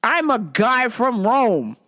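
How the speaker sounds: slow, drawn-out, lightly voiced solemn guy; a hint of a slow solemn stranger. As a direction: announce it slowly like a strange preacher. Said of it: "and he's like".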